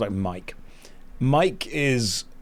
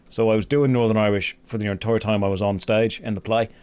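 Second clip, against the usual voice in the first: gruff Northern Irish accent; 2 semitones lower than usual. Shown as a demonstration. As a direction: speak in a Northern Irish brogue. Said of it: "I can do a good Northern Irish accent".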